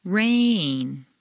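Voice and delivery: rain sung over two notes. Shown as a demonstration. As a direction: make rain musical, two pitches. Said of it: "put it on two notes".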